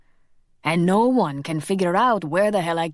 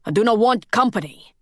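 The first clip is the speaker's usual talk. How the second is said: louder, firm refusal; angry rebuff; 4 semitones higher, 5 dB louder than usual. Acted. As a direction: push him away with the words. Angry Robbie rebuffs Carlos.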